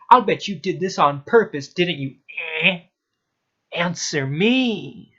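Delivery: enraged teacher shouting an accusation; angry shouting. A narrator's reading. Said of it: "shout at this school".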